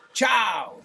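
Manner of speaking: Italian ciao, bright and falling. Shown as a demonstration.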